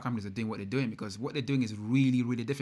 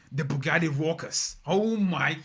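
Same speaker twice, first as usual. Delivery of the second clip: louder, higher burst of excitement; thrilled announcement; 4 semitones higher, 4 dB louder, slower than usual. Real, not acted. Streamer proposing a new Bugatti name, thrilled. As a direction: announce it like a huge reveal.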